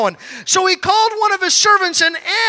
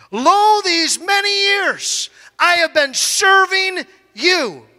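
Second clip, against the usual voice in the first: resentful son; slower than usual. Acted. Older son complaining to father, slow aggrieved whine. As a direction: drag it out like a wronged servant.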